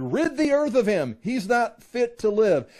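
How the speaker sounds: high, loud mob cry; crowd's angry shout. A narrator's reading. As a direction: raise your voice like a crowd demanding an execution. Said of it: "raised their voices and shouted".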